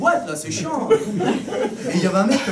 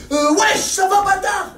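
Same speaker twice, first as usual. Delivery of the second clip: tough guy greeting; 10 semitones higher, 5 dB louder, much slower than usual. Acted. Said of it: "il me dit".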